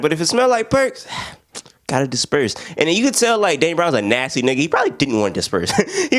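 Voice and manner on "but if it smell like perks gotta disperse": disappointed. Retold or imitated. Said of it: "he sounded disappointed".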